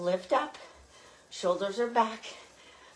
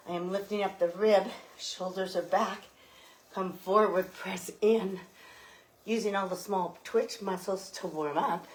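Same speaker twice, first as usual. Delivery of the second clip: slightly winded; out of breath. Real, not acted. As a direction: talk while short of breath. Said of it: "which is one of the reasons why I was out of breath".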